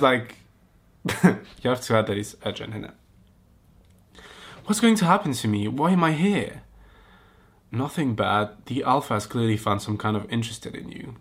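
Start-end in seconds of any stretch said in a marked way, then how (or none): 4.7-6.6 mock worried. Reading heroine's worried lines.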